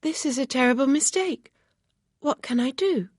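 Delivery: put-on distressed young lady; Emma, dismayed and anxious.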